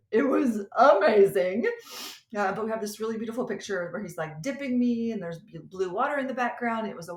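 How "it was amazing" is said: gushing. Real, not acted. Gushing about private island.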